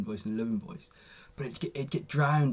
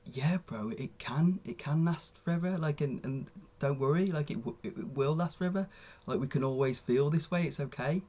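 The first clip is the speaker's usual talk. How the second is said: compassionate inner voice; 3 semitones higher than usual. Retold or imitated. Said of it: "loving and compassionate towards that scared voice".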